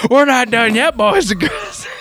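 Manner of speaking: rally the crowd with playful swagger; hyped presenter. Pretend. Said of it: "and he's like".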